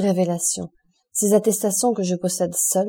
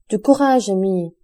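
firm encouragement; 4 dB louder than usual. Acted. Beauchamp to grieving Albert, urging him to be brave: firm rallying call. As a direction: lift him up with a strong call to courage.

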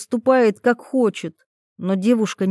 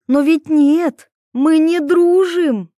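higher, louder, slow and emphatic; heated; 8 semitones higher, 6 dB louder, slower than usual. Acted. Girl snaps at Taras that they aren't friends, loud. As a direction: drive the point home, indignant.

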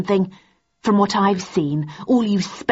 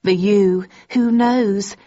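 higher, louder gloating; 5 semitones higher, 3 dB louder than usual. A narrator's reading. Daisy gloating to Thursday about Landon, higher. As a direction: rub it in sweetly.

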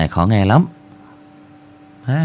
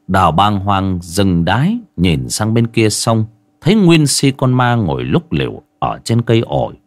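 story narration. Acted.

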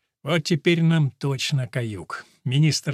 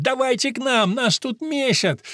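calling for help; 8 semitones higher than usual. Acted. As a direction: shout across the field for backup. Calling stands for help in brawl.

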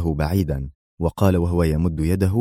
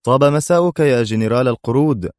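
a touch of sarcasm, slightly higher; mild mock farewell to the general; 6 semitones higher, 3 dB louder than usual. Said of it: "واستطرد في تهكم". (بتهكم خفيف)

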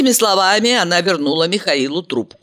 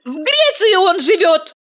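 high sharp bark at the phone; woman snapping into the phone; 14 semitones higher, 3 dB louder than usual. A narrator's reading. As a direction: snap it out loud. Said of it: "гаркнула Валерия".

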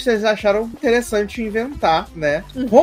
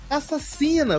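high, softer gossiping jab; mock accusation; 9 semitones higher, 6 dB quieter, slower than usual. Retelling onlookers naming the killer, mock accusation. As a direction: echo the crowd's scandalized accusation.

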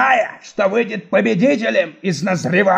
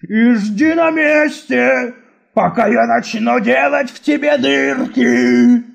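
yelling in rage; slower than usual. Acted. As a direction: roar threats at the boy. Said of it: "и завопил".

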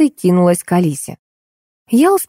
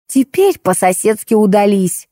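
commanding; 3 semitones higher than usual. A narrator's reading. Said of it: "распорядилась хозяйка".

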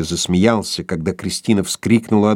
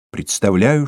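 usual speaking voice

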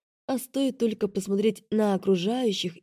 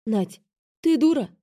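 angry, louder retort; 4 semitones higher, 4 dB louder than usual. A narrator's reading. Vika angrily asking her sister. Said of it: "зло спросила".

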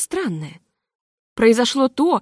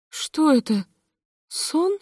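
bewildered; 7 semitones higher, much slower than usual. A narrator's reading. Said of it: "шепчет мадам Левон".

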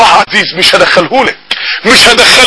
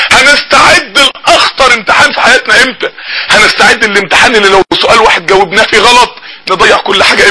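weeping sermon. Acted. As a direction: rebuke them gently through tears. Preacher weeping while exhorting. (وعظ باكي ببطء)

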